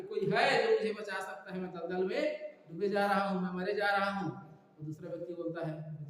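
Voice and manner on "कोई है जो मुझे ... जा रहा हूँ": mildly raised, pleading call for rescue; retold cry for help. Trapped man calls passers-by to save him from the mire, retold cry for help. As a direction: call out like someone sinking, without full shouting. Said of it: "उसको चिल्लाया कि".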